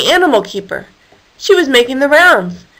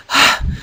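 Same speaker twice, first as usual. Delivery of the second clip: breathless sigh. Acted. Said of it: "Hilary was soon panting, out of breath".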